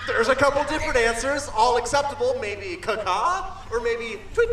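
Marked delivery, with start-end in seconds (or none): 2.4-3.6 crow caw. Shown as a demonstration. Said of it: "What sound does a bird make?".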